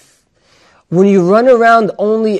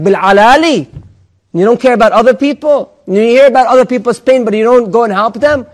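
haughty indignation; 5 semitones higher, 6 dB louder than usual. Acted. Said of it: "the person changes his tone of voice".

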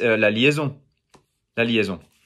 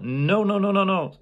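rapid higher-pitched "no" string; emphatic correction; 6 semitones higher than usual. Shown as a demonstration. Teacher stopping a beginner's mistake, emphatic correction. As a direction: reject it with a higher run of noes.

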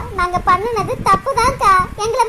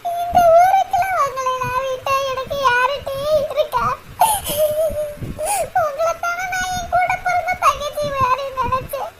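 tearful reproach; 5 semitones higher than usual. Acted. Rani reproaches her friends for hiding the secret, crying. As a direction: sob out the hurt of being kept in the dark.

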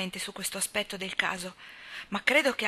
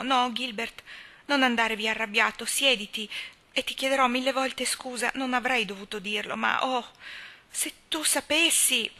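put-on higher, imploring young wife; pleading wife; 5 semitones higher, 4 dB louder than usual. A narrator's reading. Anna stopping Gilbert at the door, imploring. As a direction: beg him to stay.

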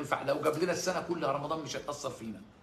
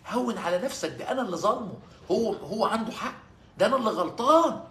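higher, pleading, a touch of tears; tearful plea; 7 semitones higher, 5 dB louder than usual. Retold or imitated. Abu Bakr pleading to the Prophet, mildly tearful. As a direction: beg forgiveness, voice welling up. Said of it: "وسيدنا أبو بكر يبكي يقول له".

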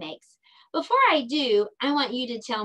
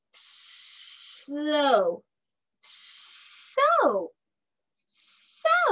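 "So" climbing higher each time; blending sounds; 5 semitones higher, much slower than usual. Shown as a demonstration. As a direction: say "So" rising step by step. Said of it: "blend these two sounds together".

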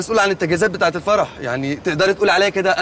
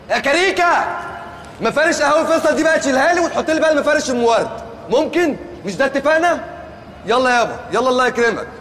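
bossy excitement; 5 semitones higher than usual. Acted. Planner bossing the wedding workers.

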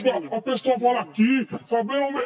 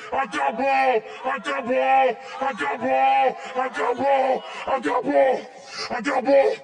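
repeated shouting; slower than usual. Acted. Repeated mock meltdown.

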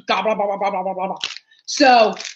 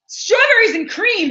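high, slow disgusted sneer; 10 semitones higher, 3 dB louder than usual. Real, not acted. Mocking the flavor to viewers, a high slow sneer.

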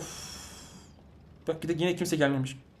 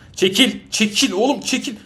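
loud, higher shouts at a teammate blocking him; shouting at a teammate in the way, loud and impatient; yelling get out of the way; 6 semitones higher, 5 dB louder than usual. Real, not acted. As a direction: bark it to shove him aside.

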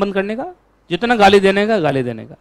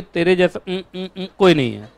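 mock bleep; 3 dB quieter than usual. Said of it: "beep का आवाज नहीं निकाल पा रहा हूं".

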